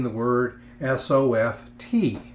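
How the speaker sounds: letters spoken slowly one by one; spelled out slowly. Shown as a demonstration. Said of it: "Let's take the first word here".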